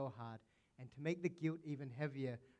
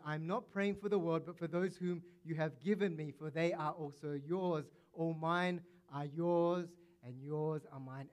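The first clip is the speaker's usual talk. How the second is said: fervent preaching; 3 semitones higher, 6 dB louder than usual. Real, not acted. Preacher reading Jesus' prayer.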